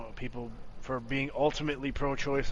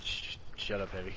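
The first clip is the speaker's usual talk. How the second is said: whispering; 7 semitones lower, 11 dB quieter than usual. Real, not acted. Whispered through laughter.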